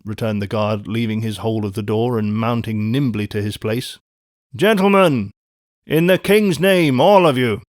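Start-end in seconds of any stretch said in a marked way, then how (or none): 4.5-7.6 loud, high appeal to everyone; rally them with an urgent call; hurried adjuration. A narrator's reading. Guard summoning passengers to defend the coach, urgent loud call. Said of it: "With this hurried adjuration".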